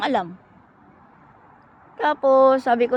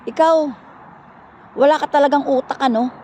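higher, mildly heated imitation of a telling-off; retold scolding; 3 semitones higher, 3 dB louder than usual. Brother berates his sister as brainless, retold scolding. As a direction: act out a brother's rebuke.

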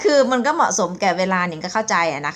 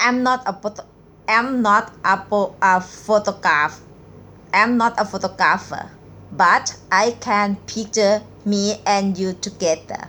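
very slow reading; much slower than usual. Shown as a demonstration. Teacher reading a pickup line very slowly to viewers. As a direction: read each word out slowly, with pauses. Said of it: "หนิงจะอ่านช้าๆนะคะ".

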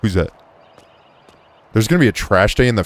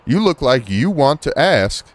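slow, higher drawl for a policeman; put-on policeman voice; 5 semitones higher, slower than usual. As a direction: draw it out in a put-on accent. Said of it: "that's not his accent".

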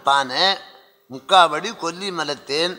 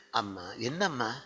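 low, soft fatherly questioning; gentle concern; 7 semitones lower, 10 dB quieter than usual. Acted. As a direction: softly ask a weeping daughter what is wrong. Gently asking the weeping woman. (கனிவான தாழ்ந்த குரலில் விசாரித்தல்)

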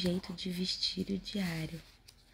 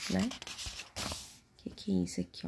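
normal talking voice

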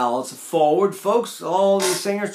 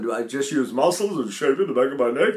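dark throaty voice; 3 semitones lower than usual. Shown as a demonstration. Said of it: "When I did that in college, I was a bass".

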